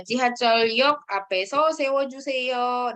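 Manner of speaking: slow, careful Korean read-out; slow model phrase. Shown as a demonstration. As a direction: model it slowly for the class. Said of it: "맞아요".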